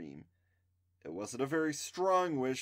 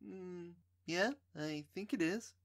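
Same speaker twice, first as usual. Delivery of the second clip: put-on dreamy girl voice; 7 semitones higher, 5 dB quieter than usual. A narrator's reading. Trisha answers dreamily.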